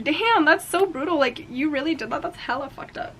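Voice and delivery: shocked. Retold or imitated. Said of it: "I'm like".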